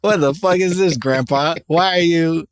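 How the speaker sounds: high, incredulous laughing rant; teasing an old man's outfit; mock outrage at Grandpa. Mocking Grandpa's outfit in high incredulous disbelief. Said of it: "And it's like".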